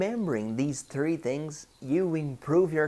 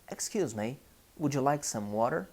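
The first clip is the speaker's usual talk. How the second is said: US or Canadian English accent, quicker on the offer; North American accent; faster than usual. Shown as a demonstration. Teacher shows what travellers hear in Canada, North American accent. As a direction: put on an American accent, casually offering water. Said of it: "United States, to Canada".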